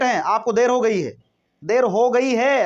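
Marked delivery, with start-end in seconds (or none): 1.6-2.6 देर हो गई है stretched slowly, word by word; teacher drawing out the phrase to show a wrong approach; slow, drawn out. Shown as a demonstration. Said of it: "अगर ऐसे सोचो तो sentence नहीं बनेगा".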